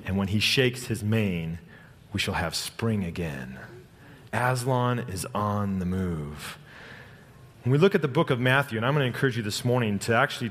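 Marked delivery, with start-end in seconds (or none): 0.1-3.6 slow rhyme reading. Acted. Reading Narnia rhyme aloud. 4.3-6.6 slow emphatic refrain. Acted.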